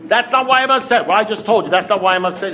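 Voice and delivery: high, incredulous outburst easing down; acted-out exasperated disbelief; indignant protest. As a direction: protest as if you can't believe it. Acted quarrel, protesting to sponsor.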